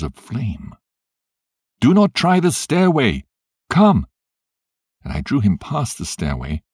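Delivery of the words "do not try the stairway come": loud, high urgent command; urgent shout. A narrator's reading. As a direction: warn him off the stairs. Ghost guiding him through fire.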